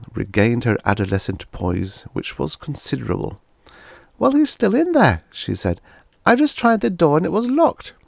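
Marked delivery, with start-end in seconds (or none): 4.2-5.2 put-on much higher, louder girl's voice; a girl reporting with urgency; teenage girl. A narrator's reading. Daughter telling her parents the Martian is still inside, girl voice. 6.3-7.9 put-on much higher, louder girl's voice; a girl reporting with urgency; teenage girl. A narrator's reading. Daughter telling her parents the Martian is still inside, girl voice.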